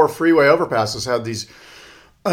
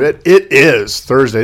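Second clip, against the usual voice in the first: talking through a soda burp; fizzy drink burp mid-sentence; burping after fizzy drink; 7 dB louder, slower than usual. Real, not acted. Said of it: "I apologize if I'm burping into the microphone".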